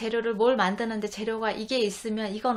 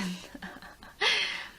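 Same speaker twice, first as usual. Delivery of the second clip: short laugh; 8 semitones higher than usual. Real, not acted. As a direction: let a small voiceless laugh slip out mid-sentence. Speaker laughs mid-explanation.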